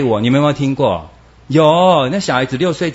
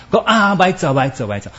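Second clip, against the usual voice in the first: mock whining; 7 semitones higher, faster than usual. Acting a whiner again.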